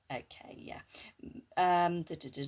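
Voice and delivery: quick whisper to herself; whispered aside. Real, not acted. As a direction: breathe it under your breath.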